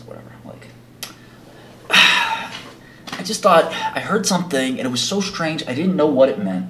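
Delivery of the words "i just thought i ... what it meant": mildly put-on innocent puzzlement, higher voice; fake naive. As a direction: play slightly baffled and clueless. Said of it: "doing this, like, fake".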